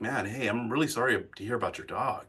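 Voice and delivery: soft, sympathetic condolence; empathy. Acted. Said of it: "Empathy, we showcased that".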